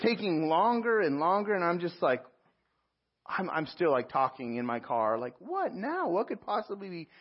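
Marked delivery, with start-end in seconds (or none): 5.4-7.1 exasperated disbelief. Retold or imitated. Stuck in line, exasperated in car.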